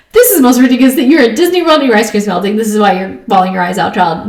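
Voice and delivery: mock scolding, tapering off; exasperated disbelief. Mom to bawling child over melted cone, exasperated. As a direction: scold with amused incredulity, easing down. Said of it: "This was ridiculous to me".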